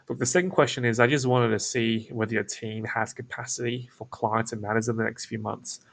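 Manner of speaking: toned-down, unbothered delivery; casual, laid back. Shown as a demonstration. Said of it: "So I'm slowing down my vo-, my tonality".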